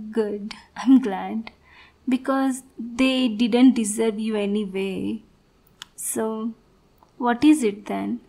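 soft, clingy sweetheart talking close; gently manipulative girlfriend; possessive lover. Acted. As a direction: coax a sad partner away from his family. Plays possessive partner role.

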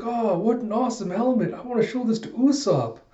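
high, cute little voice full of wonder; imitated high-pitched awe; Chopper, bedazzled. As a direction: gush like a dazzled little creature.

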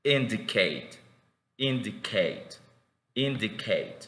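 "indicate" with a short, barely articulated first I; careful teacher's "indicate", short opening I; short I demonstration. Shown as a demonstration. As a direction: model "indicate" word by word, first vowel brief. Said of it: "como es corta".

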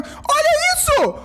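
high startled cry; startled shriek. Real, not acted. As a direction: shriek it out in shock. Startled by a scary fish.

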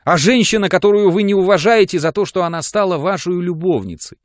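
высоко и громко, с рыданием в голосе; выплакивает обиды, навзрыд; рыдая. A narrator's reading. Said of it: "продолжала она, рыдая". (рыдая, жалуется Жоржу высоко и громко)

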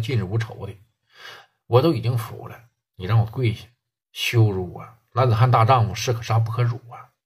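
low, humbled pleading; pleading gangster. Acted. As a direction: beg low and earnest to save face. (低声恳求对方别让自己下跪)

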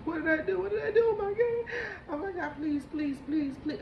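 very high, loud hysterical pleading; imitated shrill crying. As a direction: act out frantic, wailing begging. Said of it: "crying, shrills".

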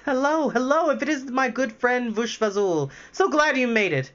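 high, bright little chirping creature. Acted. Tiny greeting his friend, high chirping voice. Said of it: "he heard a chirping voice".

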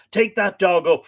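high, loud order; forceful master giving orders; commanding. A narrator's reading. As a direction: bark out the command. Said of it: "Fergus commanded".

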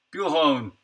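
"hone" with no R, rhyming with bone; silent R. Shown as a demonstration. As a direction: drop the R from horn, saying "hone". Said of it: "the R is silent too?".

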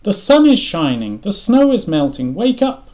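high, loud pleading shout; desperate crying out. A narrator's reading. Frog trying to wake Toad, crying out. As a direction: urge him up, building to a high cry. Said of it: "now he's crying, so there's more desperation".

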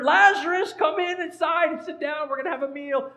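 high, chirpy mock host; playful high-pitched welcome; mock dinner invitation. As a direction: invite him in as if for a meal. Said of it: "Was he inviting him over for dinner?".

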